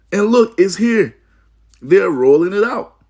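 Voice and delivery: rising alarm in the voice; excited. Real, not acted. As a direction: announce it like proof has arrived. Preacher exclaims prophecy coming true.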